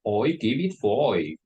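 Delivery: light Birmingham accent, "I" said as "oi"; mock Brummie with oi vowels; a hint of Birmingham. Shown as a demonstration. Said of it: "in Birmingham, they will say something like".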